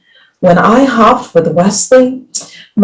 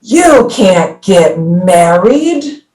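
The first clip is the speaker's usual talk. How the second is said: scary voice; much slower than usual. Acted. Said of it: "said a scary voice".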